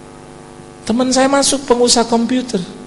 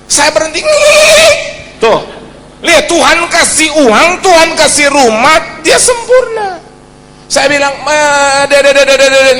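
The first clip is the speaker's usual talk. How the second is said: energetic preaching; 6 semitones higher, 8 dB louder than usual. Acted. Preaching climax continues.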